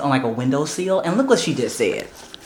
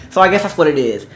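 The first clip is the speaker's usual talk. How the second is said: ordinary delivery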